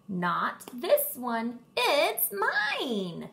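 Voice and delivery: stubborn frog claiming the worm; croaked defiantly. Acted. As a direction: refuse to hand it over. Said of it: "croaked defiantly".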